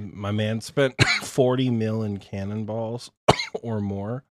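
coughing through the words; coughing fit. Real, not acted. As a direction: talk between coughs. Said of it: "I'm sorry, I'm coughing like crazy".

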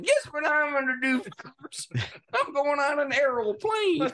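high-pitched, gushing traveller; hammed-up giddy announcement; mock excitement. Young flyer announcing a plane trip, mock excited. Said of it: "like, excited".

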